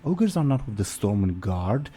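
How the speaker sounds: high, slow explaining lady voice; noblewoman explaining. Acted. Noblewoman explaining ogres to her friend, high and slow. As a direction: spell it out slowly in a high voice. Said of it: "the other lady will say".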